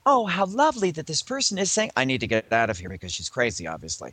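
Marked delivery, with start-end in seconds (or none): 0.0-1.9 higher, falsely charmed tone; mock polite delight. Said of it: "went from this expression of". 2.0-2.9 dropped, lower escape aside; mock uneasy aside. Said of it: "went from this expression of".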